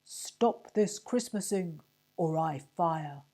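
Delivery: loud, slow, booming bellow; bellowing sergeant. A narrator's reading. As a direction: roar it at the crowd. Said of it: "bellowed the sergeant".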